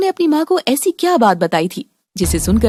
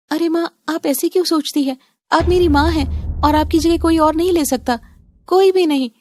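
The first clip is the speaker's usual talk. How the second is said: higher, earnest daughter voice; pleading young daughter; 5 semitones higher than usual. Acted. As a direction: plead with her mother, pitch raised.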